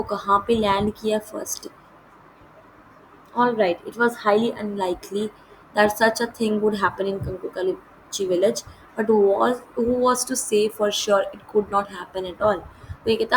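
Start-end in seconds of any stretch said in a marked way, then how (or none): 3.4-12.6 measured, slow read-aloud of the English text; deliberate storybook narration; slow story reading. A narrator's reading. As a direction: read each phrase out slowly and clearly, like a lesson passage.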